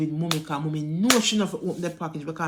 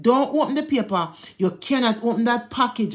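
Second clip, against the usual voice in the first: a touch higher and louder, firm; aunt's stern warning; 4 semitones higher, 3 dB louder than usual. Retold or imitated. Aunt on the phone warning the mother not to open it, firm. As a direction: lay down the rule like a worried aunt.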